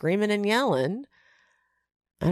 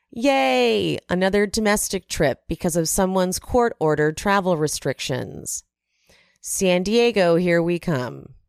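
mock cheer. Mock cheer quoting Whitney's jab.

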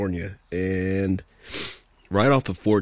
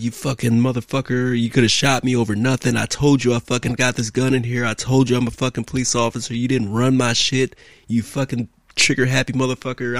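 mildly raised, indignant retold tirade; retold screaming; 3 semitones higher than usual. Officer cusses out the cop who drew on him, mock angry. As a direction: imitate cussing someone out, half-voiced. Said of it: "I'm fucking screaming at him".

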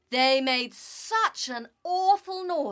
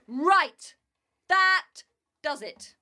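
angry bark; 3 semitones higher, 5 dB louder, slower than usual. Acted. Sky God loses his patience.

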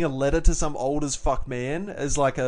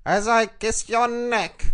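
high, slow creepy-suitor parody; weirdo politician; 7 semitones higher, slower than usual. Acted. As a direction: draw it out as the awkward seducer.

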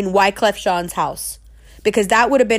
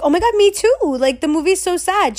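eager agreement; 7 semitones higher than usual. Retold or imitated.

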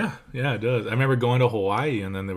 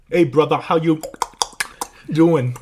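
imitating loud coworker; 5 semitones higher, 7 dB louder than usual. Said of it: "he's like Swahili".

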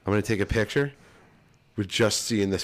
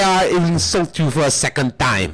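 Monty Python and the Holy Grail; 5 semitones higher, 4 dB louder than usual. Acted. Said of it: "Monty Python and Search for Holy Grail".

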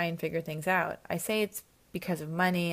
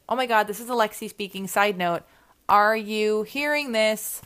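loud, stretched, thrilled exclaim; excited outburst; 3 semitones higher, 7 dB louder than usual. Real, not acted. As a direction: burst out at the mic. Excited outburst about the email.

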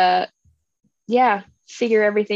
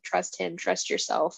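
disembodied voice in the head; 3 semitones lower, 8 dB quieter than usual. Retold or imitated. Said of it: "disembodied voice in her head".

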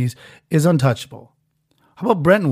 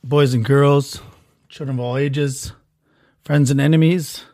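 ringmaster. Acted. Circus-style opening address.

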